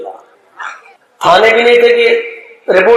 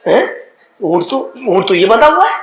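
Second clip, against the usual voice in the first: stunned discovery. Acted. Man discovers camel tied there. (حیرت سے چیخ)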